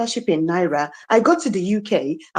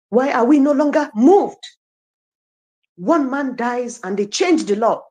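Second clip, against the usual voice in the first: emotional outburst. Real, not acted. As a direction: pour your frustration out at the country. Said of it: "I tend to get really emotional".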